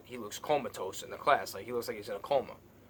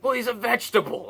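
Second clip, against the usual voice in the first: mother's voice; 10 semitones higher, 6 dB louder than usual. Retold or imitated. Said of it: "just saying".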